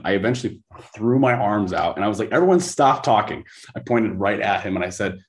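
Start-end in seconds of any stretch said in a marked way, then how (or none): 2.3-3.4 higher, slightly raised retold command; intense command. Coach silencing the round table, intense retold command. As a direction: cut off the room, intensely. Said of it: "'cause I get very intense".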